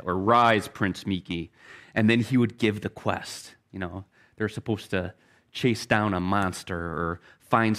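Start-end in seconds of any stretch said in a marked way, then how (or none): 0.2-1.5 a lightly voiced king, pitched lower and grave; slow, lower, kingly command to rise; deep king voice. King in a bedtime story bidding his kneeling son rise, lower kingly voice. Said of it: "It was in a deep voice like that".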